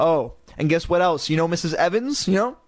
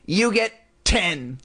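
dummy voice; 4 semitones higher, slower than usual. Acted. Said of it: "Lindy made Slappy say".

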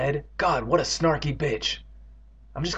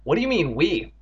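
teasing; 3 semitones higher than usual. Acted. Andy teases Evan for saying we, teasing. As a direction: needle him playfully. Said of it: "Andy teased".

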